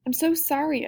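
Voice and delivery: a touch of choked-up tearfulness, pitch lifted. Acted. Girl at her friend's grave, mildly choked up. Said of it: "I choke out".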